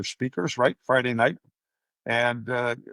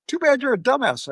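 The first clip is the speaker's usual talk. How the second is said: mock insult repeated; 12 semitones higher, 4 dB louder than usual. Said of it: "And he goes".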